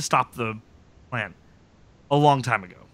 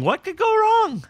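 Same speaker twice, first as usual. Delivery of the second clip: sarcastic; 3 dB louder, slower than usual. Real, not acted. Sarcastic about Milo coming.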